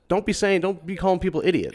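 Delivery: hammed-up parental telling-off; mock scolding parent. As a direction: play the lecturing dad for laughs. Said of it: "and I was like".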